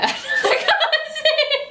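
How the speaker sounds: words dissolving into a giggle; breaking into laughter. Real, not acted. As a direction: lose it halfway through. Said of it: "I can hear it in your voice".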